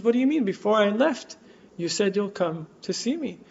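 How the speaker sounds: put-on a child's earnest certainty, rising in pitch; trusting child's insistence. Son to mother at the train station, trustingly insistent.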